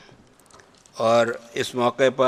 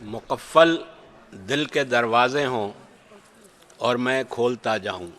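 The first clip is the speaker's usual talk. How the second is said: stately nazm recitation. Acted. Poet recites his nazm.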